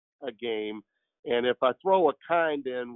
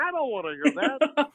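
Harry Caray impression; 10 semitones higher than usual. Doing Harry Caray calling a Cubs game, high and drawling. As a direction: call the game like a boozy old play-by-play man. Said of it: "one of my favorites is, uh, is Harry Caray".

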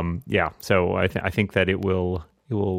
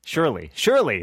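mocking impression; 6 semitones higher than usual. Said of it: "says the man who saw Phantom Menace five times".

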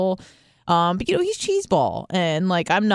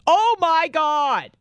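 high, drawn-out mock gasp of horror; retold shock; 11 semitones higher, much slower than usual. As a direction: stretch it out in exaggerated disbelief. Retelling own shocked reaction.

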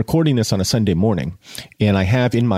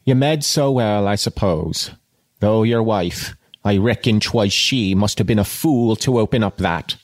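measured audiobook reading; literary narration with pauses between phrases; story narration. A narrator's reading. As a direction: read the novel aloud with deliberate phrasing.

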